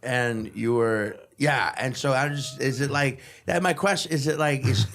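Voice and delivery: imitating a drunk fumbling for the question; drunk act. Drunk journalist losing his question mid-interview, mock-drunk stumbling. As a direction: restart and stumble, feigning drunken focus. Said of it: "drunk but trying to also".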